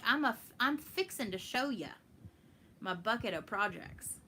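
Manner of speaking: Texan twang slipping in; Texas accent. Shown as a demonstration. Streamer showing Kristen how Texan slips in, Texas accent. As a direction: show off a folksy Texas accent. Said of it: "sometimes it really slips in".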